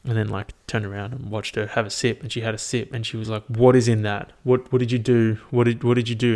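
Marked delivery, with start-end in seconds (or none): 3.5-6.3 loud mock panic; imitated freak-out. Girlfriend demanding answers after a bad sip, mock freak-out. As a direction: act out a girlfriend freaking out, raised voice. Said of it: "she's freaking out".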